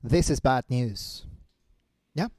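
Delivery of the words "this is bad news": slow, soft shadowing repetition; imitating the video speaker. Shown as a demonstration. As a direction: echo it gravely, taking your time. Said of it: "tienes que imitar lo que él hace". (imitando al orador, lento y suave)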